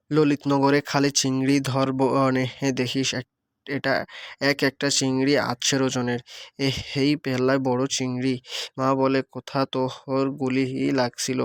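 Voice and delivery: reading a story aloud, dialect dialogue voiced. A narrator's reading. Teacher reading a Bengali story to the class, in storytelling voice. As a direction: read the village story with regional speech.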